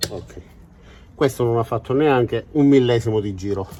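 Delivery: out of breath from crouching; winded, catching breath between words. Real, not acted. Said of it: "Scusate il fiatone".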